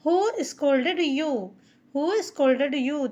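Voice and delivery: "Who scolded you" drawn out very slowly, syllable by syllable; slow model question for beginners; slow teaching read. Shown as a demonstration. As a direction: dictation pace for learners. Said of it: "scolded का use हुआ है".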